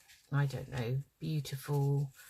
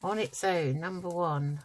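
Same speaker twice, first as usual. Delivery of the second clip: calling numbers like bingo; sing-song number calling; bingo caller. Pretend. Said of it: "I could be a bingo caller".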